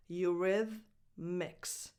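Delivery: "Eurythmics" slowly as yoo-RITH-miks, TH voiced; voiced TH pronunciation. Shown as a demonstration. Teacher assembling the band name, voiced TH pronunciation. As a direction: draw out the band name with the TH of "the". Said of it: "and then a voiced T H".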